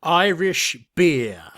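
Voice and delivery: slow, deliberate mock presenter; imitating Raymond. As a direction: drawl it out like the old presenter. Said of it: "your best Raymond, uh, accent".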